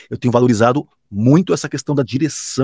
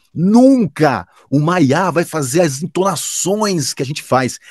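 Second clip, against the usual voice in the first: slow, drawn-out, higher imitation of a colleague; imitating a sure colleague, higher and slowed; Kleber's manner; 4 semitones higher, slower than usual. Imitating colleague Kleber dismissing AI, slow and emphatic. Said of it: "que eu fiz, ó, o jeito do Kleber".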